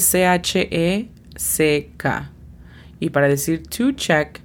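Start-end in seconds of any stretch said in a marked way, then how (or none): 0.0-2.3 C H E C K as separate Spanish letter names; phonetic spelling. Shown as a demonstration. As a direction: spell out C H E C K for a learner. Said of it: "La pronunciación fonética es". (deletreo fonético de C H E C K)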